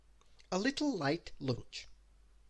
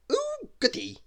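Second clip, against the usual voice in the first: very high, gleeful squeal; delighted squeal; 5 dB louder than usual. Acted. Mister Silly delighted.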